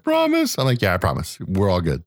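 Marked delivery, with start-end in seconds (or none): 0.0-0.6 put-on high, questioning child voice; mock little-boy plea; seven-year-old son. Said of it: "He's like". 0.8-2.0 lower, casual calming dad; understated parental comfort; mild reassurance. Retold or imitated. Dad promises son nobody dies.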